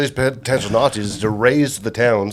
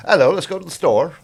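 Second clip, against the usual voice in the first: amateur British accent, higher pitched; 4 semitones higher than usual. Shown as a demonstration. Comparing his accents for the friends, in an attempted British accent. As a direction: have a go at a bad British accent. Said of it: "like my British accent".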